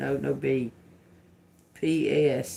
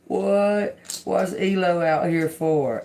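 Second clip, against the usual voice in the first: surprised; 5 semitones higher, 5 dB louder than usual. Real, not acted. Startled by device saying Elon.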